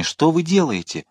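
high-pitched, dismayed protest; alarmed exclamation. A narrator's reading. Cardinal protesting the queen's order, alarmed exclamation. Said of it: "воскликнул Мазарини".

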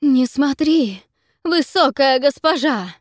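high, loud, slow desperate cry; desperate shout. Acted. Gorgon warning her mistress not to look, desperate shout. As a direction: scream a warning in panic. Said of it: "отчаянно кричит Горгона".

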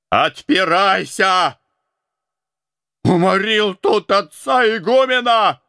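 high, loud, slow pounding yell; furious shout. A narrator's reading. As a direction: roar it while hammering the door. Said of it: "начал Антоний орать". (яростный крик в дверь)

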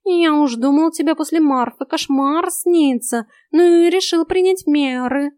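slow, loud, grumbly cat voice; cat grumbles about waking her; grumbling cat. A narrator's reading. Cat Vaska voice.

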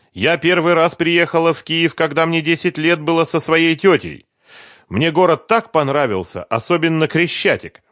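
put-on eager young woman recalling Kiev; Sveta's voice. A narrator's reading. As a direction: chatter it brightly as Sveta.

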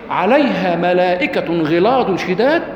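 slow, deliberate reading of a Quran verse; slow verse quote. Acted. Teacher quoting a verse to his class, slow and deliberate. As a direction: lay each word of the verse down slowly.

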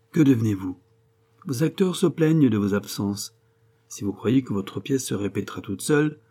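lightly voiced teasing friend; a touch of playful reproach. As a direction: chide an absent playwright, lightly animated.

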